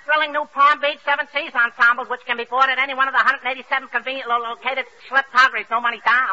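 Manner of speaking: rattled-off sales patter; talking like a radio. Acted. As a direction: parrot a radio commercial in one long run. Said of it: "You're talking like a radio".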